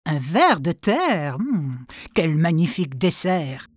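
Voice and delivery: slow, gloating wolf; greedy wolf. Acted. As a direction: savour the dessert. Wolf thinks. (loup gourmand)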